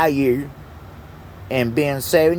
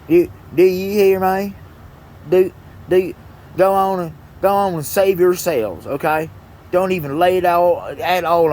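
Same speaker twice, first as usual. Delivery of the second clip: calling out; 4 semitones higher than usual. Real, not acted. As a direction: raise your voice to warn everyone. Calling out to viewers.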